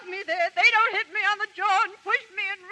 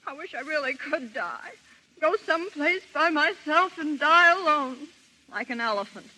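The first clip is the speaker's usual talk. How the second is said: sad; 4 semitones lower than usual. Acted. Wishing to die alone.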